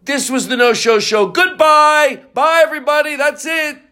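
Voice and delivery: high, projected announcer goodbye; mock sign-off. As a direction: wrap the show up brightly, rising to high farewells.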